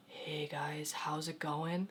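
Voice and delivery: low hushed voice, still half talking; failed whisper. Retold or imitated. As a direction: imitate someone who can't quite whisper. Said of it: "Tyler's version of A S M R would be like".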